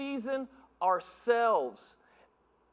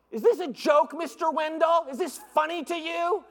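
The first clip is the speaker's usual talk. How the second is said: loud, higher scolding teacher; stern teacher; 6 semitones higher, 4 dB louder than usual. Retold or imitated. Teacher confronting Mister Wendell over the salty muffin, stern. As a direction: demand it like an offended teacher.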